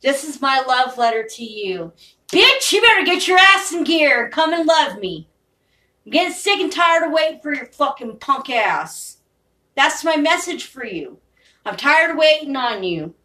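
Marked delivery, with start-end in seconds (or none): 2.3-9.2 louder, raised pitch, scolding his absent lover; angry demand. Real, not acted. Speaker demanding his distant lover come love him, angry and louder. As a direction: bark it out, fed up and impatient.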